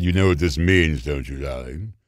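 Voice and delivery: lightly voiced Tallulah drawl. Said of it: "she looked at this and said".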